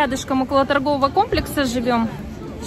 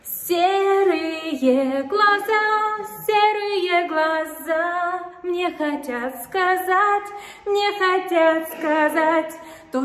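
warehouse echo; 3 semitones higher, much slower than usual. Real, not acted. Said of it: "у нас здесь такое эхо".

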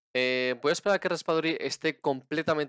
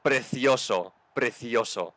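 loud, joyful goal celebration; breakneck goal commentary; 6 dB louder than usual. Real, not acted. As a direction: cheer the goal at full volume.

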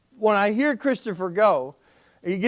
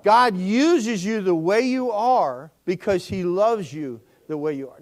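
slow, measured, said together; slow group recitation. Shown as a demonstration. Pastor leads the congregation in saying it together. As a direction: lead the room through it word by word. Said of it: "Can you say that with me".

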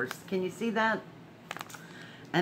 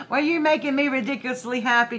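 higher, louder and fast, bursting with joy; giddy after a laugh; excited; 6 semitones higher, 5 dB louder, faster than usual. Real, not acted. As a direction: throw the card's words back with glee.

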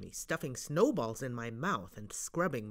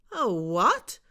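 loud incredulous question; baffled, call it back; surprised; 4 semitones higher, 8 dB louder than usual. Acted. Steve disbelieving.

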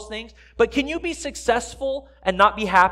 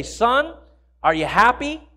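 raised voice, rising question; calling out; 3 semitones higher, 5 dB louder than usual. Acted. Father to son setting roof trusses, calling out. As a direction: call it over to your son.

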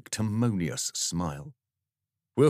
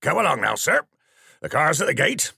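loud, higher sergeant orders; brisk command; 9 semitones higher, 8 dB louder than usual. Acted. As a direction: hustle him along out loud. Sergeant hauling the vicar off.

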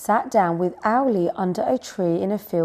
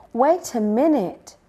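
raised-pitch little owl calling a halt; mild shout; 5 semitones higher, 4 dB louder than usual. A narrator's reading. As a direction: shout lightly for a pause. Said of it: "shouted Baby Owl".

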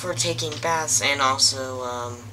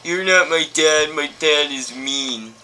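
fear turning to anger; 6 dB louder than usual. Acted. Charlie pushes away stranger.

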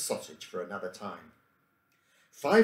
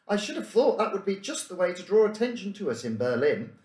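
impatiently; 10 semitones higher, 4 dB louder than usual. Acted. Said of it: "said Emile impatiently".

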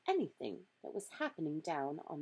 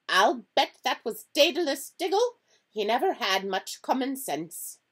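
loud, higher, scolding professor; exasperated tirade, voice raised; impatient McGonagall; 4 semitones higher, 9 dB louder than usual. A narrator's reading. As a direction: rant impatiently as the stern professor.

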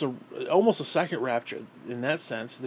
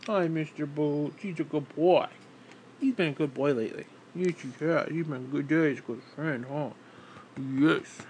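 pet talk. Real, not acted. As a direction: coo at the dog. Talking to his dog.

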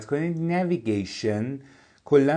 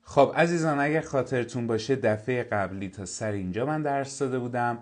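ordinary talk, nothing marked

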